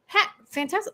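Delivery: high, delighted "heck, fantastic"; a giddy seller; mock thrilled. Seller watching sales climb, high mock thrill. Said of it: "Man, we increased it".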